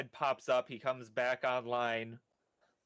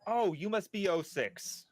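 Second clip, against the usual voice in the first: Theo greeting; 5 semitones higher than usual. Acted.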